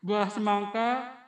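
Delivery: slow, laughing through the words. Real, not acted. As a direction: giggle your way into it. Laughing while starting a pantun.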